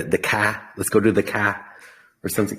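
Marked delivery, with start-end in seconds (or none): 0.2-0.7 car said "kah" in Boston accent; light imitation of a Boston accent. Shown as a demonstration. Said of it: "uh, accent, right? They say the". 1.2-1.6 car said "kah" in Boston accent; light imitation of a Boston accent. Shown as a demonstration. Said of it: "uh, accent, right? They say the".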